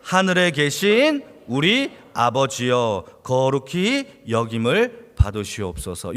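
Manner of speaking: slow, solemn reading of scripture; slow congregational scripture recital. Real, not acted. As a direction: read it slowly aloud with the congregation. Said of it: "같이 한번 읽어볼게요".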